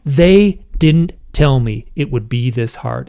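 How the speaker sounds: slow, loud reenacted protest; anguished retelling. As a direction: relive the distress, stretching the words. Reenacting his anguished hypnosis outburst.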